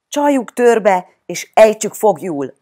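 loud, high rallying whoop; Lakatos Sanyika whooping. A narrator's reading. Child proposing to trap the Martian, hollering. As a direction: holler the plan eagerly to the gang. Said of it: "kurjantotta Lakatos Sanyika".

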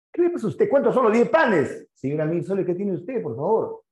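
high, loud indignant shouting; outraged customer, voice shooting up high; angry outburst. Acted. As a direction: yell at the baker like you've been cheated. Angry customer argues about price.

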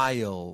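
I'll with a hidden y in the middle; y-glide before L. Shown as a demonstration. Teacher explains the mouth sound, I'll with y-like glide. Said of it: "มันคล้ายๆกับมียอยักษ์นะ ใน ในปาก".

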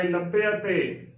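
ਲੱਭੇ ਅਤੇ as "labbe-ate", the half y opened to e-a; ਲੱਭੇ ਅਤੇ as one carefully voiced word; shown pronunciation. Shown as a demonstration. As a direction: say ਲੱਭੇ ਅਤੇ with separate e and a vowels. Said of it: "ਉਚਾਰਨ ਕਰਨਾ ਹੈ".

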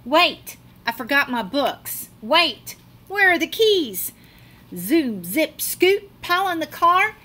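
high, loud flustered hurry; frantic rush. Acted. Child frantically rushing to the car. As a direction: hurry everyone out in a panic.

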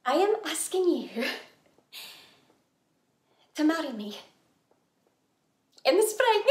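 halting, with long pauses before each phrase; hesitant proposal. Acted. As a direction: propose carefully, piece by piece. First, tentative marriage proposal.

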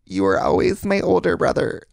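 hammed-up Midwestern intervention letter, slow; imitating a Wisconsin family reading an intervention letter; Wisconsin accent. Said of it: "they have the super Wisconsin accent".

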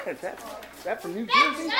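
quoting the guy. Retold or imitated. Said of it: "she has this accent".

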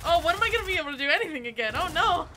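loud exasperation. Real, not acted. Player who can't shoot complaining, loud and exasperated. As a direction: rattle it out loudly in frustration. Frustrated at being unable to act.

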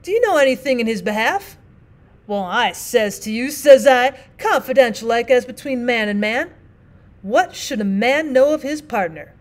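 lightly voiced plain-spoken miner, apologetic; rough miner partner. Partner pleads.

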